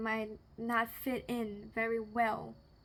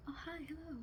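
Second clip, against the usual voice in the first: a lightly put-on posh voice, higher and softer; posh greeting; 5 semitones higher, 9 dB quieter, faster than usual. Waking from dreams of old books, a light mock posh greeting. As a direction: greet like a refined lady from a classic novel, mildly hammed. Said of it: "so posh".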